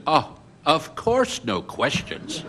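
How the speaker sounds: slow, drawn-out mock agreement; mock compliance. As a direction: agree with exaggerated, sarcastic solemnity. Mock agreement to police condition.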